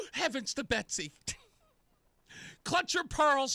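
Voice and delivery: pearl-clutching. Acted. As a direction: play the scandalized old lady. Mock gasp, pearl-clutching.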